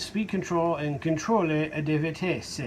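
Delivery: slow, lightly put-on Italian accent. Vlogger reading French label text, mock Italian accent. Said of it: "I'm doing it with an Italian accent".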